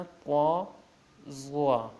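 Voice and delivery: طا، ضا heavy and rounded, not held long; not overstretched. Shown as a demonstration. Teacher modelling for learners, rounded unstretched طا، ضا. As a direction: round طا، ضا without dragging them. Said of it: "ضا کو زیادہ نہیں کھینچنا".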